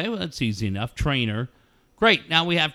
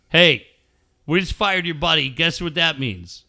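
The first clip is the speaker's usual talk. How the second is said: harsh firing; 2 semitones higher, 4 dB louder than usual. Acted.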